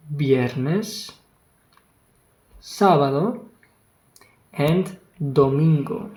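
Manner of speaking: each day said slowly with a rising end, pauses between; call-and-response recitation; slow repeat-after-me. Shown as a demonstration. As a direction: lead the class through the days one by one. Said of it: "repeat with me".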